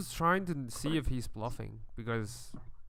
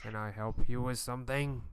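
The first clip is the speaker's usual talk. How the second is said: disguised voice. Acted. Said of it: "In a disguised voice".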